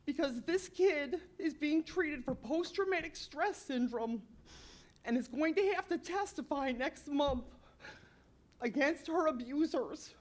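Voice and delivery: genuinely upset, voice lifted and pressing; pleading with the board, emotion rising; choked-up earnest appeal; real upset. Real, not acted. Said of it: "but I'm getting upset".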